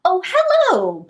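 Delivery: high, drawn-out silky hello; purring lion. A narrator's reading. Lion greets Little Red, purring. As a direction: purr it slowly, stretching the greeting. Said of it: "purred the lion".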